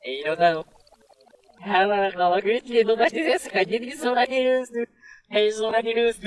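reversed playback gibberish; backwards speech. Shown as a demonstration. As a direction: sound like speech played in reverse. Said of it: "逆再生したいと思います".

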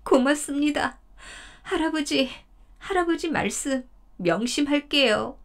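high, imploring deer voice, begging grandfather; pleading deer. Acted. 덫에 걸린 사슴이 할아버지에게 애원하듯. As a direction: beg him to let you go.

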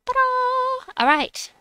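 high, loud showy ta-da. Real, not acted. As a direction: present it with a flourish. Presenting team.

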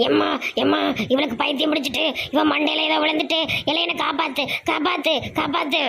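begging to be saved; panicked cry. Acted. Mother-in-law screaming for help from the possessed daughter-in-law, panicked.

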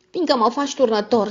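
put-on boy at the end of his rope; boy yelling back at his sister; exasperated shout. A narrator's reading. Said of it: "strigă exasperat François".

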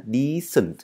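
"decent" with a slightly longer ee; teacher repeats "decent" with a long ee. Shown as a demonstration. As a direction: hold the ee in "decent" a little. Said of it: "y dài một tẹo".

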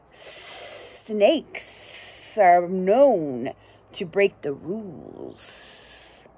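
a sneaky snake boasting. Acted. Snake bragging to the narrator, slow and sly.

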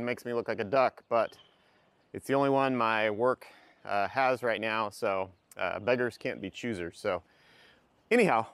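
muffled behind a face mask; through face mask. Real, not acted. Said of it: "hopefully you can hear me over this mask".

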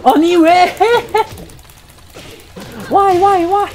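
high, loud, laughing why; high disbelieving protest. Real, not acted. Streamer protesting a loss in Korean and English. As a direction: cry out in real disbelief.

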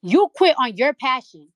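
slow loud accusing jab; loud accusation. Real, not acted. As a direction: hammer the accusation home, slow. Angry rant at a rival.

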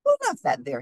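high-pitched indignant cry; acted exclamation, pitched well up. A narrator's reading. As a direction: cry it out high, as a storybook character. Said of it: "he cried".

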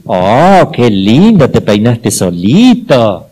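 put-on a loving mom marvelling at her child; praising mother. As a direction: gush over the child's messy hair like a proud mom. Mother praising child's own hair-combing.

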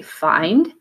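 find said clearly; teacher models the word. Shown as a demonstration. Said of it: "you say".

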